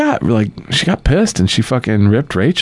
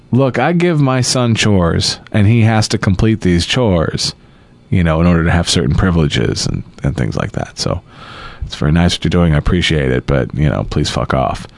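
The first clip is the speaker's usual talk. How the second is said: mock polite wife; 7 semitones lower than usual. Quoting wife's polite speech.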